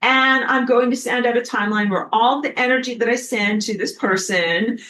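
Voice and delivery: hammed-up sun villain; mock evil sun. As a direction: gloat and threaten like a cartoon villain. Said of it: "I don't know if I did a good job of acting that out".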